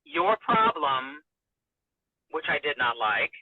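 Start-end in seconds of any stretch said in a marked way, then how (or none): 0.0-1.2 slow, weighty your problem; slow and deliberate. Retold or imitated. Husband counsels his upset wife, slow and deliberate. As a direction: lay the words down slowly, like counsel. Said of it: "he said to me".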